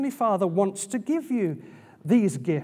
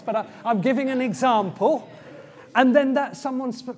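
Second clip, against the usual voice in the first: laughing; 3 semitones higher, 4 dB louder than usual. Real, not acted. Laughs during his example.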